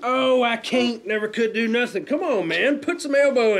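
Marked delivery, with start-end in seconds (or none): 0.0-1.1 drawn-out mocking echo; mocking whine. Wrestler mocks his partner's giving up, mocking whine. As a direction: slowly mimic the other's complaint.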